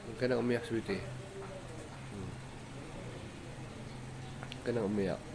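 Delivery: quiet reassurance; soothing. Real, not acted. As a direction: gently hush a whining dog, voice dropped. Soothing the whining dog.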